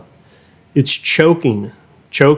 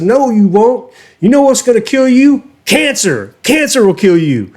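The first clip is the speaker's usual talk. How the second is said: mock comeback; 9 semitones higher than usual. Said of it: "And I said".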